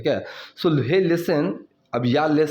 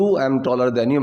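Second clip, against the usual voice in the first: slow model sentence; 2 semitones lower, much slower than usual. Shown as a demonstration. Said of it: "teacher models example slowly".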